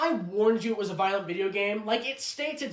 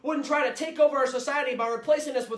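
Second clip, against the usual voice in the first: mock bigoted rant. Bigot ranting at a robot.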